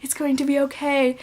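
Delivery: hushed self-talk, starting near a whisper; retold self-soothing. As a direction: imitate tearful self-reassurance under your breath. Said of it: "tears rolling down my face".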